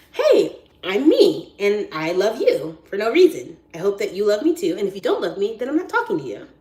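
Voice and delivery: exuberant, over-the-top proclamation; love out loud. Acted. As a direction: declare your love at full volume. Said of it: "my tactic is love out loud".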